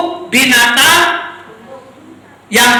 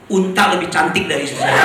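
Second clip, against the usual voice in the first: laughing punchline; 6 semitones lower, faster than usual. Real, not acted. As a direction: joke told through a laugh. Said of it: "joke punchline with laugh".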